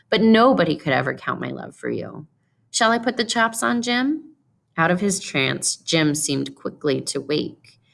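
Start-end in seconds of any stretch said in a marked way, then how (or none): 0.1-4.4 serious sweetness. Acted. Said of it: "with sudden serious sweetness".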